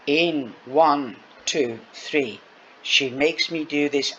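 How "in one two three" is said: soothing count. Acted. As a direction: count her breaths, slow and soothing. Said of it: "I'm going to count your breaths".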